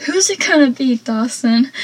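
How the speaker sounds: lightly annoyed demand for an answer; mock annoyance. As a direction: imitate someone fed up with waiting. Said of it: "how he sounds so annoyed".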